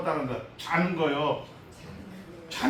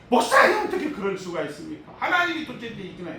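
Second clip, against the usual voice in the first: ranting complaint; 2 semitones higher, 3 dB louder, faster than usual. Retold or imitated. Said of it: "막 승질 고래고래".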